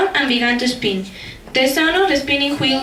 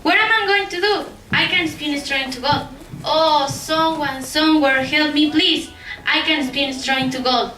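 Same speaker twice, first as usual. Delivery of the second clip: put-on despairing girl.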